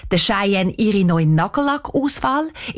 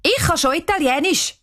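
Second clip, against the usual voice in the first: put-on higher, proud girl calling out; 9 semitones higher than usual. A narrator's reading. Cheyenne calls out proudly in the car, higher. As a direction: show off proudly. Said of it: "ruft Cheyenne".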